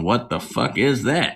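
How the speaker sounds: slow, stressed "What the fuck is that?"; heavy emphasis. Retold or imitated. Friend imitating the little girl's emphatic question, slow and stressed. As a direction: lean hard on every word of "What the fuck is that?". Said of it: "she really wanted to put the emphasis on".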